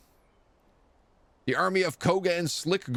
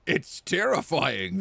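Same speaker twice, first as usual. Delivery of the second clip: slow ominous goblin; 4 semitones higher, slower than usual. Acted. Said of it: "the goblin says".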